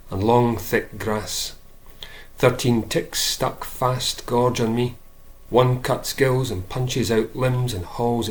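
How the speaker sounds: measured poem recital; poem reading. Acted. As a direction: read the verse out with deliberate phrasing. Reads a poem.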